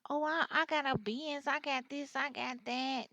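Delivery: mock bragging. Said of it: "acting like they rich".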